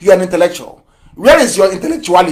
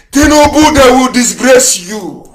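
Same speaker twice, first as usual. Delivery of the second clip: loud warning; 6 semitones higher, 6 dB louder, slower than usual. Retold or imitated. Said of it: "The same way I was telling Tinubu".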